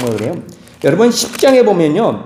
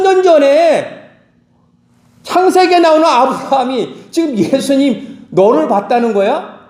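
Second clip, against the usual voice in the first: the crowd jeering at Jesus, incredulous and mocking; scoffing crowd; 5 semitones higher than usual. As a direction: scoff at Jesus, then sneer. Crowd mocks Jesus in heated dispute.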